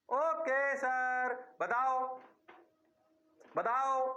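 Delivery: mock student. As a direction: act the student begging sir to explain.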